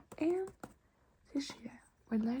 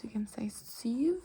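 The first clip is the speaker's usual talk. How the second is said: whisper. Acted.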